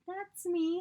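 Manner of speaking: high, thrilled squeal; excited. Retold or imitated. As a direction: proudly squeal it out. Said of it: "I was like".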